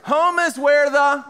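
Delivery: drawn-out lead-in for the crowd to finish; prompting the crowd. Shown as a demonstration. Speaker starts the old adage for the audience to complete, drawn out. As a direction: start the saying and leave it hanging. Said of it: "yeah, good job, guys".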